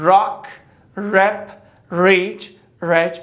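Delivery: Rock, rep, reach said clearly for students to copy; repeat-after-me drill. Shown as a demonstration. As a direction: model each word for the class. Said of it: "Repeat after me, guys". (بگو و تکرار کنید)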